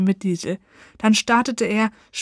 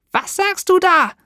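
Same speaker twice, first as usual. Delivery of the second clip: very high, loud, strained disbelief; the witch shrieks in horror at the news; shocked witch shriek; 10 semitones higher, 5 dB louder than usual. Acted. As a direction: witch horrified to hear she drank the poison. Witch learns she is poisoned.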